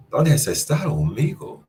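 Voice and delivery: Dónde starts high and falls; rising inflection. Shown as a demonstration. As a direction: lift Dónde high, let amigo drop. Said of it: "changing the pitch".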